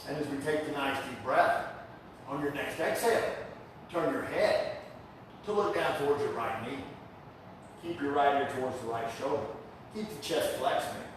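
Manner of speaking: unhurried breathing cues with pauses; calm yoga teacher's guiding voice; guided yoga instruction. Real, not acted. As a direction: lead the class gently into the breath. Leads yoga class.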